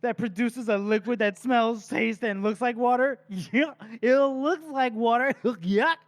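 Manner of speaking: high, laughing scorn; mock her, cracking up mid-line; sneering villain voice. Poisoner lecturing his assistant, gleeful sneer. Reading Morvir mocking Day.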